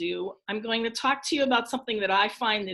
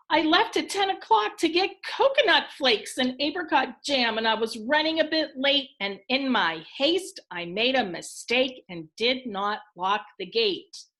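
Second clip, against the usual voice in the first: Missus Crane explaining. Acted. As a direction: lightly act out her account, pitch easing down. Reads Missus Crane explaining her mistake.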